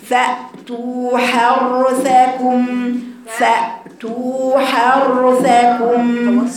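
حرثكم slow with a medium ر; balanced r. Shown as a demonstration. Teacher drilling the r sound, slowly. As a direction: keep the ر in حرثكم moderate, separated from ث. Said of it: "توسط في الراء".

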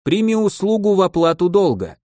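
high, sustained ceremonial declaration; solemn. A narrator's reading. Giderika offers a service to repay debt, solemnly. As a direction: proclaim it like a formal oath. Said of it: "торжественно заявил".

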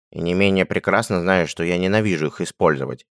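grumbling, weight on менее; менее stressed in a sour grumble. Acted. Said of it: "проворчал Анчут".

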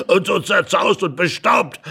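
highly amused. Acted. Laughing at the dishevelled intruder, amused. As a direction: point it out between fits of laughter.

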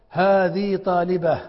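هذه طالبة said slowly; slow example read. Shown as a demonstration. Teacher reading the example sentence aloud, slowly. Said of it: "أين الخطأ عندكم؟".

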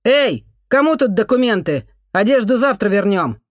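high, loud call across the hall. Acted. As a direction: shout to whoever is in charge. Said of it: "крикнул".

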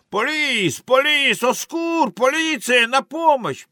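high, frantic calls; cry for help. Acted. Arthur calling for the police, high frantic cries. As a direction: call out each plea very high.

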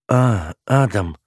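slow, letdown drawl of his name; disappointed drawl. A narrator's reading. Eva hears it is Adam, drawls disappointed. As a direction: stretch it out, let the hope drain. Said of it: "протянула разочарованно".

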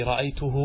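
رأيته with a long "hū" at the end; waw ending. Shown as a demonstration. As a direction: say رأيته as "ra'aytuhuu". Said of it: "الواو في".

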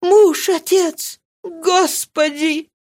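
high, slow, anguished lament; anguished cry. A narrator's reading. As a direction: cry out to God in despair. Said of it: "сказала Мари, ломая руки".

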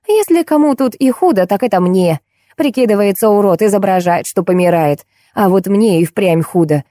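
lightly voiced fed-up wife. Wife complaining about her drunk husband to a stranger, lightly voiced grievance. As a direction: grumble your grievances with mild spite.

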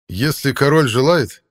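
high, loud, slow heroic call; manly heroic voice. A narrator's reading. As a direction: ring out like a battle horn. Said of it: "красивый мужественный голос Ланселота". (мужественно, как боевой рог)

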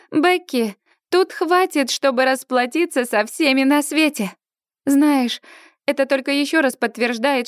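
high, eager chatter; bubbling with excitement; excited friend. Acted. Excited friend Suzie enthuses.

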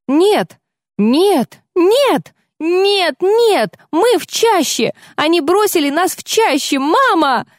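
high panicked wailing cries; hysterical screaming. Acted. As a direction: scream it in blind terror. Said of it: "завопила она".

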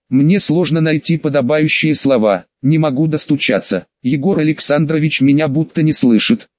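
usual speaking voice

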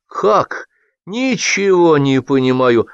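high, drawn-out baffled outburst; astonished, stretched questioning; wide-eyed bewilderment. A narrator's reading. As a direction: protest in total confusion. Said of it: "выпучил глаза Шашков".

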